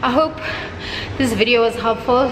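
breathless after the workout; panting between words; out of breath. Real, not acted. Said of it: "Sorry, I'm, like, out of breath".

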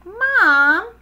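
high, loud, stretched wail; crying out. A narrator's reading. Froggy back home calls his mom, crying out. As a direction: wail for a parent like a let-down kid. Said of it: "cried Froggy".

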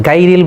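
"গাইরিল" with a plain, thin "gaa"; common mispronunciation. Shown as a demonstration. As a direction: open "গাইরিল" on a light g and aa vowel. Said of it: "বলে থাকে".

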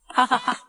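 high, put-on bandit laugh; mocking laugh. Bandit jeering at a captive boy, mocking laugh.

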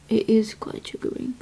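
soft whispered ASMR; whispering. Acted. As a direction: whisper it close to the mic.

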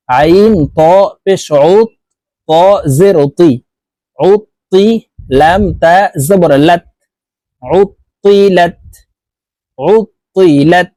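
drawn-out "উতিলাত", the first ত thick. Shown as a demonstration. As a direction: spell out "উতিলাত" with a heavy emphatic ত. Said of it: "হরফকে মোটাভাবে উচ্চারণ করতে হবে". ("উতিলাত"-এর ত মোটাভাবে পড়ুন)

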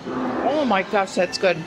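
talking through a mouthful of sandwich; mouth full. Real, not acted. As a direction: say it while still chewing. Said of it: "don't talk with your mouth full".

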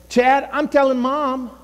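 lightly voiced tattling brother; younger brother tattling. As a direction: threaten to tell on a sibling. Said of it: "That would be my younger brother".

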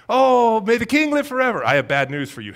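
high, loud, gushing compliment before bad news; butter him up first; fawning flattery. Courtiers buttering up the king before bad news, gushing. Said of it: "always begin with a compliment".

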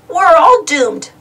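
high, slow, drawn-out lament; doomed wailing. A narrator's reading. Sister tells her brother they are ruined, wailing melodramatically. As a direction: melodramatic cry of doom. Sister wails about the disaster.

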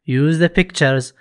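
very slow, clear English instruction; slow instruction reading. Shown as a demonstration. Teacher reads the workbook instruction slowly to the class. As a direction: read the rubric out slowly.

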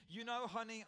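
a lightly sweet, affectionate call to a husband; sweetly. Retold or imitated. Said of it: "I said sweetly".

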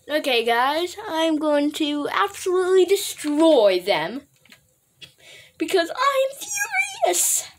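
put-on furious voice, played up; half-serious show of fury; mock furious. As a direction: pretend to be furious, drawing out the key words. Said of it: "This is my furious voice".

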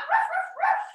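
high yappy puppy barks; playful dog barks. Pretend. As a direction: bark like a happy little dog for the kids. Downward dog, barking like dog.

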